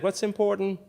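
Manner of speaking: imitating a mother's tender question; sweet smile. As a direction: ask it softly through a sweet smile. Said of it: "with the sweetest smile and she said".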